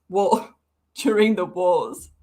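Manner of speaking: slow, laughing through the phrase. Real, not acted. Rereading the post and laughing through it. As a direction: giggle as you repeat it.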